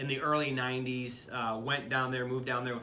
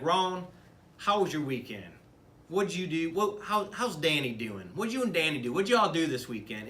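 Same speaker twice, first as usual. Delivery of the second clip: playfully bad Southern Tennessee accent, higher and louder; 4 semitones higher, 4 dB louder than usual. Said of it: "in her southern accent".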